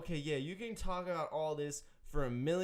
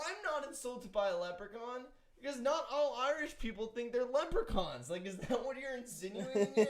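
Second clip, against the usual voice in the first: higher, hammed-up offended protest; mock indignation; 7 semitones higher than usual. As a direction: ham up being insulted. Mock offended Irishman ranting.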